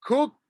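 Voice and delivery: "Cooked" high pitched, k-oo-kt each sound separated; three clear sounds. Shown as a demonstration. Teacher shows the three sounds of "Cooked" slowly. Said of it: "It's almost like it has three sounds".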